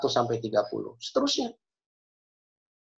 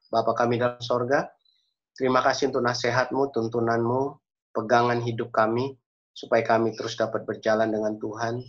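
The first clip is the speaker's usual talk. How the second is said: measured, even praying voice; earnest prayer; 4 semitones lower than usual. Real, not acted. Preacher leads the congregation in closing prayer, earnest and measured. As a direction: address God steadily, phrase by phrase.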